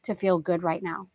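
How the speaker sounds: gentle affirmation. Pretend. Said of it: "if we say to ourselves".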